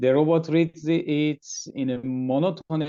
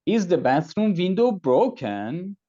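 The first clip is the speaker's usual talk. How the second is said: broken held long with a rise; stress on broken; 4 semitones higher, 3 dB louder than usual. Shown as a demonstration. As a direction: stretch broken and lift it. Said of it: "And lastly".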